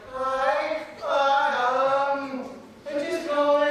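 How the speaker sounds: high, halting, stumbling; nervous caller. Retold or imitated. Girl calling her crush on speaker, high and stammering. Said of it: "she's just like".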